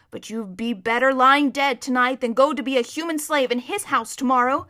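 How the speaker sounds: lightly voiced, no-nonsense horse; brusque talking horse. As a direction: warn the boy firmly.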